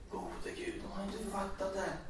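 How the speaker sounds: breathless whisper, quick and hushed; a soft, fast unvoiced aside; whispered thought. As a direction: hush it like a private thought.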